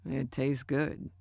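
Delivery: slow, finishing a bite; chewing through the words; mouth full. A narrator's reading. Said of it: "he said, finishing the bite".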